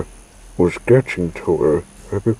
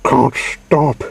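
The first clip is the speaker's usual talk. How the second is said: gasped; 6 semitones higher than usual. A narrator's reading. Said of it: "she gasped".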